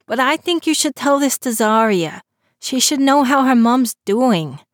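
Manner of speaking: put-on a young man making excuses; lightly voiced teen Christopher.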